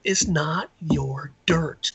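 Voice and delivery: slow, hushed whisper; whispered reply. Retold or imitated. Nephew hushing his uncle about the dirt, whispered.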